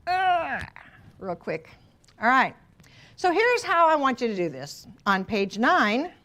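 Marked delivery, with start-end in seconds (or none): 0.1-0.6 mock groan. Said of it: "Can we all just go". 5.1-6.1 "On page nine" stretched slowly, each word held; slow, drawn out. Shown as a demonstration. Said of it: "teacher stresses page number".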